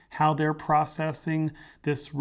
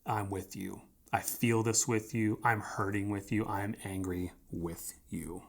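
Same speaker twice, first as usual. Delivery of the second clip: gentle empathy; 2 semitones lower, 6 dB quieter than usual. Shown as a demonstration. Pastor voicing empathy to someone in the pit, soft. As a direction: say it quietly, right beside them. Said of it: "Empathy is getting into the pit".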